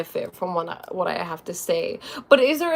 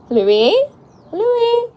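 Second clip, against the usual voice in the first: loud, high call to the cat; calling the cat, higher each time; 8 dB louder than usual. Real, not acted. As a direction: call her name out across the room.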